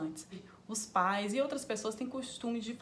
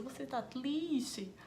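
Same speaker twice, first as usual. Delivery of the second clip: put-on higher, slow, cooing baby-talk voice; mock baby talk; 4 semitones higher, much slower than usual. Shown as a demonstration. Parent cooing at a toddler in mock baby talk. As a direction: coo it like talking to a tiny baby. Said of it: "como se estivesse falando com um nenenzinho".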